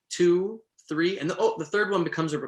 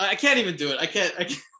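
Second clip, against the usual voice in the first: ordinary delivery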